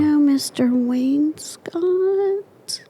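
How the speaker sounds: high, slow, breathy amazement; high hushed astonished question; whispered disbelief. Retold or imitated. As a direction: whisper it slowly in awe. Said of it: "he says".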